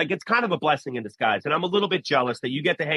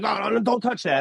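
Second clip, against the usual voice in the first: higher-pitched mock panic; freaking-out mom; 6 semitones higher than usual. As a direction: imitate a flustered mother stopping her child. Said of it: "freaking out".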